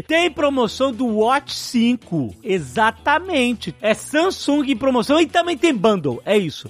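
bright, pushy sales pitch; infomercial. Acted. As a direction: sell it like a TV ad host. Upbeat sponsored ad read.

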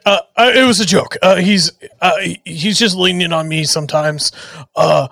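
hammed-up tearful plea, stammering; fake sob story. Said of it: "give him that, like, uh, sob story thing".

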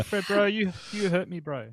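playfully wounded fake Kiwi; hammed-up Kiwi bro talk; mock New Zealand accent. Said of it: "do a New Zealand accent".

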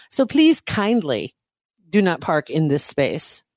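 slow, overly polite reading; passive aggressive. Retold or imitated. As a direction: drag out please kindly. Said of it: "passive aggressive".

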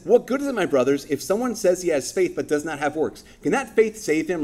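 a sassy, high-pitched challenge, quoting James. Retold or imitated. Preacher voicing a sassy Saint James to the congregation, pointed and high. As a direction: needle them like a cheeky saint. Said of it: "sassy saints".

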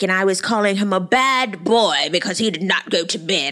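lightly put-on dad voice; a hint of a scolding dad; voice for Michael. Host voicing Michael scolding his son, lightly. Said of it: "I don't know why I'm using that voice for Michael".

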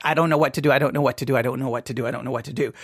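mumbling the same line, fading to almost nothing; fading helpless repeat. Retold or imitated. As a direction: sink into defeat as the words repeat. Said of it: "so now it's just like".

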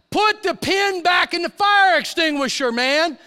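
worked up. Retold or imitated. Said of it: "I'm getting a little worked up".

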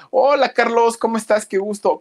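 high, bright burst of a hello; excited high-pitched hello; excited greeting. Real, not acted. Greeting a viewer from Mérida.

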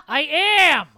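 loud, high yell to the next room; yelling back. Acted. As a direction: shout it back across the house.

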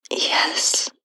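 a barely voiced, breathy yes; almost a whisper. Babysitter answering Mr. Johnson shyly, almost a whisper. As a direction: let it out on a breath, nearly silent. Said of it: "answered in almost a whisper".

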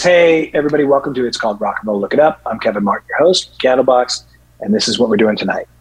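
lightly voiced radio host opening, a bit fast; podcast host intro. Shown as a demonstration. Guest previews his radio show, a light host-voice intro. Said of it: "it is like this".

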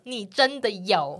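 slow, deliberate warning; eerie insistence. Retold or imitated. Friend insisting over the phone, slow and ominous. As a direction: drag each word out so it sounds ominous. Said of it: "然后他就说".

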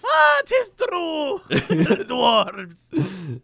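mock brogue shouted out; hammed-up Irish-Scottish. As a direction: bellow it like a tipsy Celtic dwarf. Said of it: "It started out Irish and switched over".

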